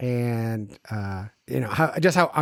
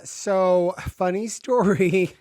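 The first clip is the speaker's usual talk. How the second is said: drawn-out, sheepish pretend phone call; mock-hesitant, slow lead-in to bad news; awkward news-breaker; 2 semitones higher, slower than usual. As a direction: stall and stretch it out before confessing. Acts awkward phone call to jail.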